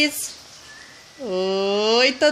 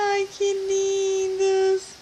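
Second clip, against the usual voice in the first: cooing; 4 semitones higher than usual. Real, not acted. Mother cooing over babies.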